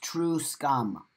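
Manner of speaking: "true scum" slow and distinct, TROO SKUM; pronunciation of true scum. Shown as a demonstration. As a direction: say "true scum" as two separate words, slowly. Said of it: "how is it pronounced again".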